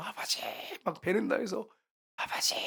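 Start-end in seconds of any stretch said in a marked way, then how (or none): 0.1-0.4 imitated wailing. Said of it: "막 통곡을 했답니다". 2.2-2.5 retold tearful cry, stretched out; imitated wailing. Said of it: "울면서 통곡을 하면서 펑펑 우는데".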